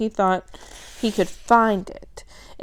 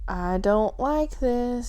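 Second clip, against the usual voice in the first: thin squeaky voice; 3 semitones higher, much slower than usual. Acted. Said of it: "in a thin, squeaky voice".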